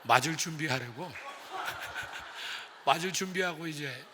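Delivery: words bubbling over with laughter; chuckling as the story turns funny; laughing while telling. Real, not acted. Laughing retelling of son's padding.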